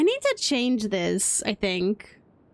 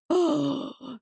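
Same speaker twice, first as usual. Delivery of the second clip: sharp, audible gasp; 4 semitones higher than usual. Real, not acted. Streamer recalling the hot computer, gasp. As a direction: let out a sudden gasp.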